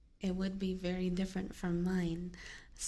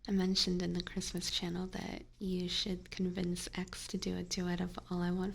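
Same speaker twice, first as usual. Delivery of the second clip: whispering. Acted. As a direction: whisper gently to listeners. Whispered chat.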